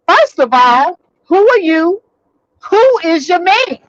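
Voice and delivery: arguing back at the caller, high and indignant; heated retort. Retold or imitated. Retold heated phone argument.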